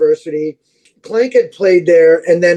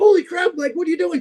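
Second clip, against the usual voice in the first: higher, mock-astonished; a raised, half-hammed holy crap; replying to the video, higher in mock surprise; retold surprise; 8 semitones higher, faster than usual. His own surprised reply.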